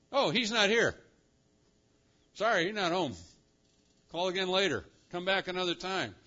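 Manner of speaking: light, offhand brush-off; mock casual. Angel tells visitors he's not home, mock casual. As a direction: play a receptionist turning away callers.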